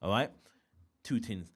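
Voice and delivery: normal talking voice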